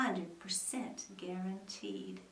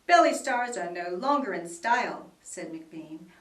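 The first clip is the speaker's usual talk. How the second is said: salesman; 7 dB louder than usual. Acted. McBean selling his machine.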